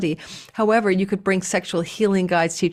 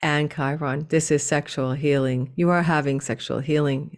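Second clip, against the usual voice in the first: monotone voice; 4 semitones lower than usual. Shown as a demonstration. Showing viewers how dull YouTubers sound, monotone. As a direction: read it like a bored robot. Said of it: "let's try it in a monotone voice".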